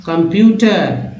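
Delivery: कंप्यूटर slowly, part by part; teacher's slow model of कंप्यूटर; word sounded out. Shown as a demonstration. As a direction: draw out कंप्यूटर as kam-pyu-tar. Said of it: "इसको क्या बोल रहे हैं".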